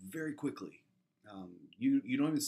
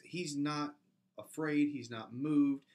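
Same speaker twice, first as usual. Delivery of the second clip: louder, higher, pressing each "not"; preaching emphasis; 4 semitones higher, 5 dB louder, slower than usual. Real, not acted. Pastor insists to his church that Jesus was calm, emphatic. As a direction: drive home that he is unafraid.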